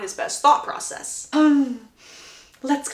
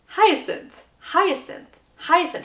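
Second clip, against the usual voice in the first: lightly acted, higher stuck-on-one-name delivery; tongue-tied repetition; 6 semitones higher, much slower than usual. Suitor can only say her name, tongue-tied. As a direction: repeat the name as if lost for words. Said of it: "literally all he can say is".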